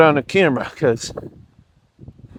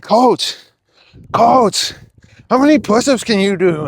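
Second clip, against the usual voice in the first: put-on eager kids voice; 5 semitones higher, 5 dB louder than usual. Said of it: "They're like".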